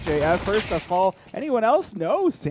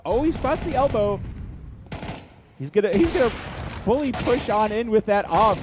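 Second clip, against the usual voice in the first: excited; 7 semitones higher, 4 dB louder than usual. Real, not acted. Caster hype on a push.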